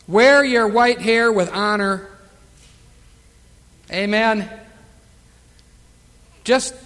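loud, earnest exhortation from the pulpit; full-voiced sermon exhortation; preaching. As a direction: urge the flock to grow old gracefully.

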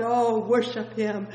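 ordinary talk

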